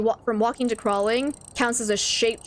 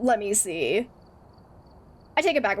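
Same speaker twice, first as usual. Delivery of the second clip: normal talking voice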